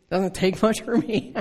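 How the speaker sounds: chuckling through the words; laughing. Real, not acted. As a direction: laugh at yourself while saying it. Laughs at own escape.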